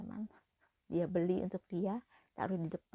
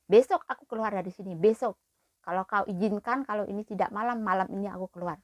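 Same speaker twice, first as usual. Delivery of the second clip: louder, fed-up complaint to the boss; finally refusing to take it; angry retort; 5 dB louder than usual. Retold or imitated. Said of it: "Berani aku ngomong di situ". (protes kesal dan lantang)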